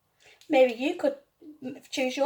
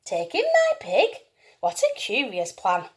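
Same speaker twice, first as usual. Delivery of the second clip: surprised; 3 semitones lower, 4 dB quieter than usual. Acted. Lady baffled by odd advice.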